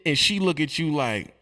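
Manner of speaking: ordinary delivery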